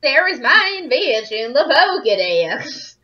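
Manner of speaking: super refined put-on accent; nice and noble. Professor presents his invention, in a hammed-up noble accent. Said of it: "Makes him sound nice and noble".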